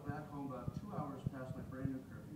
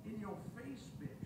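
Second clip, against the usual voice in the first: taunting; 7 semitones higher, 6 dB quieter than usual. Retold or imitated. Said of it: "and I said".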